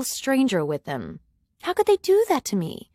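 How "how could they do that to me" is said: hurt disbelief. A narrator's reading. Narrator outraged at betrayal.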